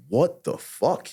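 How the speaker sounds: high, drawn-out retold disbelief; stunned disbelief. Man retelling his reaction to his own yelling, stunned disbelief. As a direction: stretch it out slowly in mock astonishment.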